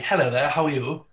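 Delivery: lightly put-on posh London voice; posh London accent. Shown as a demonstration. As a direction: try a posh London greeting. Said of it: "you want us to speak posh London?".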